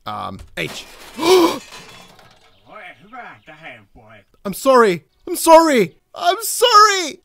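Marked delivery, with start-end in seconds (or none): 0.9-2.0 sharp, high shocked gasp; loud gasp. Real, not acted. Smashes the window. 4.4-7.2 rising, louder, ever higher pleading apologies; pleading apology. Real, not acted. Apologizing after breaking window.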